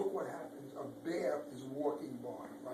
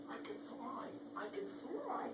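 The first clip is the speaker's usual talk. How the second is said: breathless delight; 8 semitones higher, 10 dB quieter than usual. Acted. Ladybug discovers flight.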